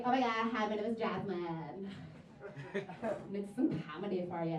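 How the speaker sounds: lightly mocked ditzy introduction; a hint of the 'like, oh my God' girl. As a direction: drag out a perky self-introduction in parody. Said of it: "imagine me with a voice like that".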